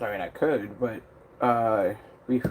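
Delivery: talking with a brush in mouth; words around a paintbrush held in teeth; mouth full. Real, not acted. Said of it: "I had the brush in my mouth".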